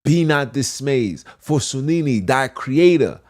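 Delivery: preaching a verse with rising force; solemn scripture reading; scripture recitation. Acted. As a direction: proclaim the promise like a preacher.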